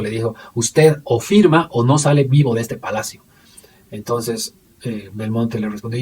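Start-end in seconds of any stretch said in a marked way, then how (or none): 0.5-3.2 louder, mildly angry mock threat; retold annoyed ultimatum. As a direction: retell the ultimatum with a touch of force. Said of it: "Bush, mucho más molesto".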